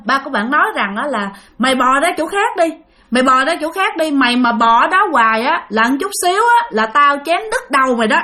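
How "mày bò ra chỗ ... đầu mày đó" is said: lightly acted cursing at a pest; retold angry scolding. Father threatening the noisy snake, retold angry scolding. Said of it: "là mới chửi lên".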